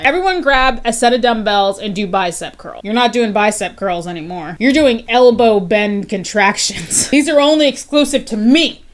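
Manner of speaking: lightly voiced mock fitness instructor; joking trainer voice, half-serious; playful fake trainer. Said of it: "I'm just screwing around now".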